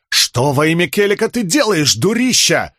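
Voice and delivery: крик повыше, с возмущением; заорать сверху на неё; вопль. A narrator's reading. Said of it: "завопил он". (Талик вопит сверху на Рисн)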